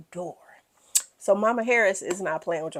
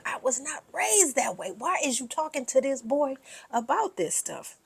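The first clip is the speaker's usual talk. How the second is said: higher, lightly mocking husband voice; higher put-on voice of a prudish dad; imitating Eugene; 6 semitones higher, 4 dB quieter than usual. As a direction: play the mortified husband, pitched up. Eugene voiced, high, in recap.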